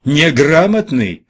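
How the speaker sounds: high, loud, drawn-out bellow; exasperated officer's shout; angry yell. A narrator's reading. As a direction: yell it in outraged disbelief. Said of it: "заорал Насенко".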